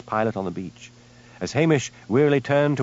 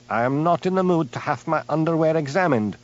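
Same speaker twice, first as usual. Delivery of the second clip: huffy; 6 semitones higher than usual. A narrator's reading. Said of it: "said Hamish huffily".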